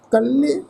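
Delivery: ਕੱਲੇ with a drawn-out vowel; lengthened vowel. Shown as a demonstration. Teacher demonstrates the lengthened reading. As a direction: stretch the sound in ਕੱਲੇ. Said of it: "ਇਹਨੂੰ ਲਮਕਾ ਕੇ pronounce ਕਰਨ".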